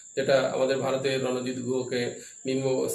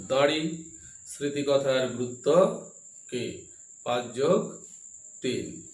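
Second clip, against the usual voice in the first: dictating. Real, not acted. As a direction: read it out phrase by phrase for notes. Teacher dictates question to class.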